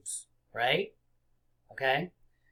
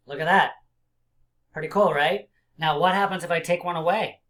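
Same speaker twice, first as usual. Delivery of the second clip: put-on kids show host; 3 semitones higher, 6 dB louder than usual. Excited teacher to kids.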